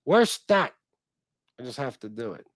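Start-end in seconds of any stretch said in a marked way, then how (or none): 0.0-0.7 put-on loud, high Baltimore accent, "Bawl-tuh-more or Bawl-tee-more"; mock Baltimore accent. Teasing his wife on every Baltimore trip, loud mock Baltimore accent. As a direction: ham up the Baltimore accent with a big shout. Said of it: "I say".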